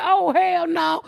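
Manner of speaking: high drawn-out cry of disbelief; mock horrified yell; retold shout. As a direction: yell it out slowly in shock. Reacting to girl choking rat.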